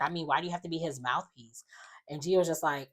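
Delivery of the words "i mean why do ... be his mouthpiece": fast, unvoiced whispered jab. He whispers a jab about being a mouthpiece, quick whisper. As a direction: hiss the dig under your breath. Retelling a snide side remark.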